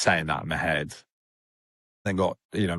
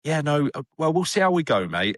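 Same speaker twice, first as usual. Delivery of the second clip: high, noncommittal brush-off; mock vague reassurance; 8 semitones higher, 3 dB louder than usual. Mocking a vague doctor dodging a straight answer, hollow noncommittal. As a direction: fob him off with a hollow maybe. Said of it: "like, a bullshit".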